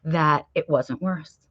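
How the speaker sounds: slow, soft reassurance; calm gratitude. Retold or imitated. Telling her husband to be grateful, slow and soft. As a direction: ease into it slowly and gently. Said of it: "And I go".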